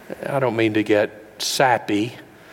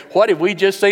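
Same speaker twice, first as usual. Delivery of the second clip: awed wonder; 9 semitones higher, 5 dB louder than usual. Retold or imitated. Shepherds stunned after manger.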